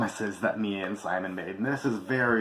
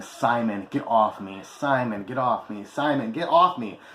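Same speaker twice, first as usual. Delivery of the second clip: repeated mock yell, getting louder at the last; retold screaming; 4 dB louder than usual. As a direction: call his name over and over, the last one loud. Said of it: "The whole time screaming".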